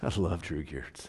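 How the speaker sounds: very hushed, acted, almost crying, very soft and slow. Acting out meeting someone who knows a loved friend: mock teary. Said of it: "I kinda almost, like, start to cry".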